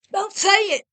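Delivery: high loud cry of refusal; scream. A narrator's reading. Wife screaming at her husband to stop, a high scream. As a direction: scream to cut him off. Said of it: "she screamed".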